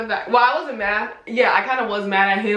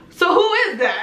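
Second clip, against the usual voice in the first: higher, laughing question; puzzled mom; 9 semitones higher than usual. Retold or imitated. Mom confused by the photo, higher and puzzled. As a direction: ask who it is, baffled. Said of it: "And she was like".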